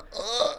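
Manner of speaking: high-pitched effortful "uh"; imitated strained grunt. Acting out driver before he just plows, mimicked grunt.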